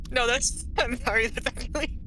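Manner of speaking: apologizing through giggles; words broken by laughter; laughing while talking. Real, not acted. Laughing fit continues.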